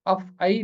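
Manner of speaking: अफ़ई ending in long "ee", af-ee; modern pronunciation. Shown as a demonstration. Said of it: "भी पढ़ते हैं".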